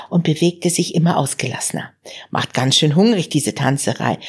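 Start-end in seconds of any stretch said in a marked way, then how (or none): 2.3-4.2 half-whispered groan of hunger after dancing; mild groaning complaint; mock groan. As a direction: sigh it out breathily like he's worn out. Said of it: "stöhnte er irgendwann".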